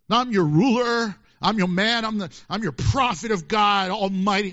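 hammed-up arrogant prophet announcing himself; a pompous prophet mocked, a bit loud; mock boastful. Mock proud prophet claiming authority.

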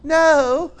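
curt no. Acted. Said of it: "they're not going".

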